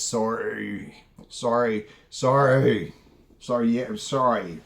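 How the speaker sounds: lightly voiced imitation of the man, repeated sorrys that fall; a hint of a limp, overly apologetic voice; mocking his apology. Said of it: "this is exactly how he talks".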